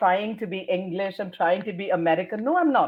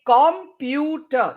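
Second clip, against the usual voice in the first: "computer" as KOM-PYOO-TER; slow, wrongly even-stressed "computer"; every syllable stressed; 3 semitones higher, much slower than usual. Shown as a demonstration. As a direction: equal weight on each syllable of "computer". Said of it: "But you can't say".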